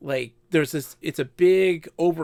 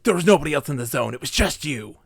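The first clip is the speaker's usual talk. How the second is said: fast accusing rush, imitated; mock angry accusation; faster than usual. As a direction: play a mad player pinning the blame. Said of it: "He was so mad".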